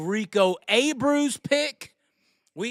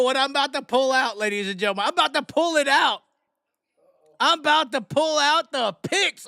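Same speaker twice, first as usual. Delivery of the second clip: hyped-up announcer build; showman announcer; 2 semitones higher, 3 dB louder than usual. Acted. Host teasing the picks to the livestream audience, hyped announcer. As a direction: punch it out like a ring announcer.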